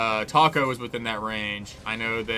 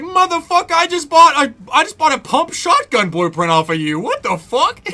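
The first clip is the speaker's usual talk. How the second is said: higher, louder mock outburst of disbelief; hammed-up shocked shout, breaking into a laugh; retold shocked yell; 13 semitones higher, 8 dB louder than usual. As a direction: yell it like you just got schooled by a grandma. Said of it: "I was like".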